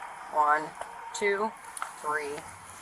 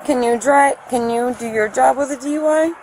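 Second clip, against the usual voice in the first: louder, insistent pushback; upset protest; 3 semitones higher, 6 dB louder than usual. Real, not acted. Driver argues with officer about her job, loud and upset. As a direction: fight back against the suggestion.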